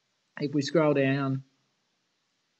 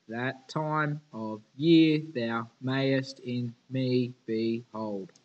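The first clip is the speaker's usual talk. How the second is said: slow reading, stressing every second syllable of "That time of year thou mayest in me behold"; stressed iambic line; 3 dB louder, much slower than usual. Shown as a demonstration. Teacher showing the class iambic feet, stressed. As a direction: beat out "That time of year thou mayest in me behold" slowly, weak then strong. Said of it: "the syllables we emphasize or stress".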